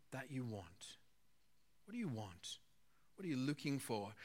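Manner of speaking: soft, low, direct questions with pauses; intimate question. Retold or imitated. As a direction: ask quietly, as if eye to eye. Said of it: "looks him in the eye".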